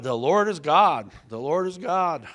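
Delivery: loud proclaimed shout; crowd shouting. Retold or imitated. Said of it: "and shouted".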